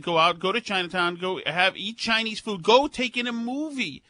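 mildly enthusiastic retelling of a politician. Retold or imitated. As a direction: urge people out with a touch of eagerness. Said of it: "De Blasio said enthusiastically".

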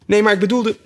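put-on high, coaxing girl's plea; pleading. Alice begs the sheep to stop the boat, high and coaxing. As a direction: wheedle like a begging child. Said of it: "soebatte Alice".

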